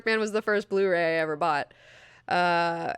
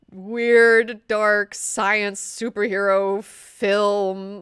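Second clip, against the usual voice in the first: excited; 2 semitones higher, 7 dB louder, much slower than usual. Real, not acted. Gushing over Darkman's weirdness.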